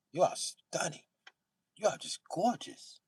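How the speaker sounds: mock swooning girl; swooning white girl. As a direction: gush like a smitten fan. White women swooning over Brit.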